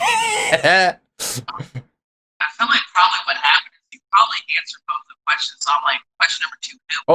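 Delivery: distant, muffled phone line; far away. Real, not acted. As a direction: sound far from the mic. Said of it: "You sound so far away".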